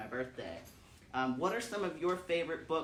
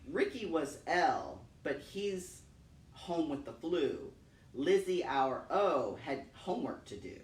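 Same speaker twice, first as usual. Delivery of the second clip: gentle, measured read-aloud; poem reading. Acted. Parent reading Where the Sidewalk Ends, calm poem reading. Reads poems aloud to kids.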